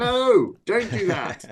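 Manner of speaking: very high, hammed-up pleading; mock horrified protest. Author begging a friend not to read reviews, mock horror. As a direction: wail a comic refusal.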